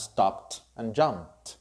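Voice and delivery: "stopped", "jumped" ending in P plus T. Shown as a demonstration. Teacher models past endings for students, ED as T. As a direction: release a T after "stopped" and "jumped". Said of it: "will be pronounced like T".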